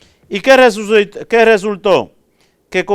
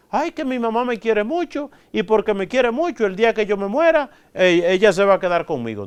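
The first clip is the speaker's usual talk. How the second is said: higher, pleading voice of someone sure they're loved; mock naive believer; 5 semitones higher, faster than usual. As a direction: play a naive soul counting on mom. Mocking a naive listener. (imitación ingenua y suplicante, más aguda)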